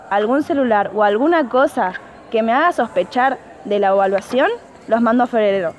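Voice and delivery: loud, firm teacher laying down the rules; stern warning. Acted. Teacher warns the whole class, loud and stern. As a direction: raise the voice and threaten the class.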